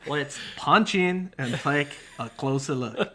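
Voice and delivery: slow, laughing imitation of Justin; Justin's voice. Imitating a fellow reviewer's catchphrase with a laugh. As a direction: lightly mimic Justin's accent, drawn out. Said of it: "she always asks me to do Justin's voice".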